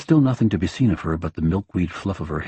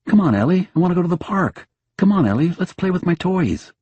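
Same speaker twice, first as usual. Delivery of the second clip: high, eager pet voice; dog pleading with its owner to wake up; imagined dog voice; 11 semitones higher than usual. Retold or imitated. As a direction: beg like a restless puppy. Dog imagined begging her.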